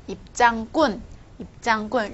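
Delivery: "군" in "입장 군" tightened to a hard tense k; tensed consonant. Shown as a demonstration. Teacher showing how the ticket word is said, "군" in "입장 군" tensed. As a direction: model "입장 군" with a firm, tense "군". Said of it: "这个군也是一样".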